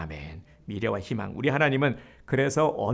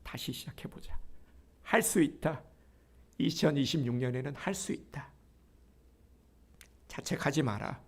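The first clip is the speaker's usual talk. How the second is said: soft, nearly whispered encouragement; 7 dB quieter than usual. Acted. God urging a discouraged believer, softly. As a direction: coax them gently to try again. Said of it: "하나님께서 우리에게 이 말씀을 하고 싶으신 거예요".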